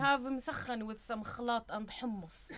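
Arabic dish names in Arabic pronunciation; Arab accent. Acted. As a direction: order food in an Arab accent. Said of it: "so you can do an Arab accent".

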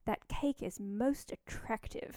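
mild imitation of a proper judge; proper British judge. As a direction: savour each word, slowly and primly. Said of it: "she always says things like".

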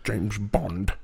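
low, soft mumbling impression; Harrison Ford. Host joins in mimicking the actor, low mumble. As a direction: mumble it slowly under your voice. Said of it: "Harrison Ford's a mumbler".

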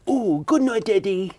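high, gently camp cockney character; camp cockney impression. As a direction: pitch it up, a little camp and cockney. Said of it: "bit cockney and a little bit camp".

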